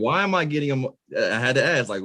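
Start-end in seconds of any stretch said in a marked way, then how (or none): 0.0-1.0 higher-pitched mock bewilderment; puzzled self-questioning. Interviewer recalls questioning their own emotion, puzzled. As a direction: retell asking yourself in baffled high pitch.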